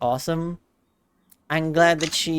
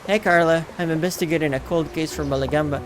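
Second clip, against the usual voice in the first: noir detective. Acted. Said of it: "you sound like a detective in a noir movie".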